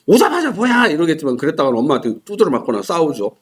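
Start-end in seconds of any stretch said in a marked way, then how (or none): 0.1-0.9 high annoyed protest; annoyed whine. Retold or imitated. Daughter protests angrily to her mom. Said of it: "화가 난 상태에서는".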